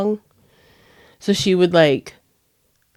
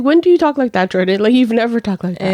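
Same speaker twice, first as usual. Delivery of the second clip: scolding mom; 3 semitones higher, 4 dB louder, faster than usual. Retold or imitated. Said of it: "I was like".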